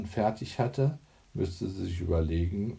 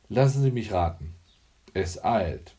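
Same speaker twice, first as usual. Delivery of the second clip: quick, louder, with a mocking edge; mocking undertone; 4 dB louder than usual. Hanne mocks the nervous neighbour Iris: a spöttischer Unterton. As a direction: tease the anxious neighbour, barely hiding scorn. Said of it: "den spöttischen Unterton in ihrer Stimme".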